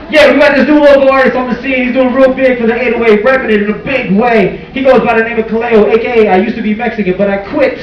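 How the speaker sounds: high, pumped-up radio host voice; radio DJ hype. Pretend. Comedian playing a radio host announcing an artist.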